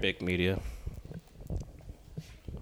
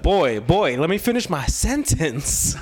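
raised, drawn-out mock reprimand; imitated interviewee; 4 semitones higher, slower than usual. Retelling Kanye cutting off the interviewer, mock reprimand. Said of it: "he was like".

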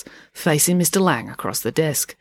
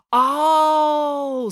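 long high "oh" of realisation; sudden exaggerated understanding; catching on; 10 semitones higher, 3 dB louder than usual. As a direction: draw it out as it dawns. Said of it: "catching on".

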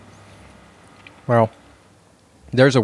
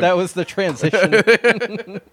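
slow, higher announcer voice; 10 semitones higher, slower than usual. Pretend. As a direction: announce it like a segment jingle. Announcing a segment jingle.

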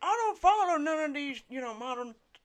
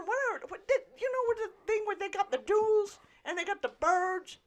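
mocking young voice; 4 semitones higher than usual. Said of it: "this sounds like you're going".

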